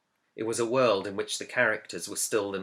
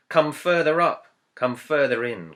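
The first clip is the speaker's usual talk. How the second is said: called out high and louder, beckoning onward; joyful cry; 6 semitones higher, 7 dB louder than usual. A narrator's reading. Creatures of Narnia calling the travellers further into heaven, a joyful cry. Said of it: "cried the creatures of that world".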